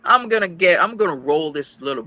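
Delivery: high, loud, furious vow; fired-up loud threat; loud angry threat. Real, not acted. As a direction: bark out the threat at full volume.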